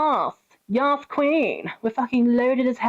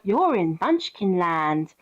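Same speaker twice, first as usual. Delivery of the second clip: tag; 3 semitones lower, slower than usual. Retold or imitated. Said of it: "then Glinda's like".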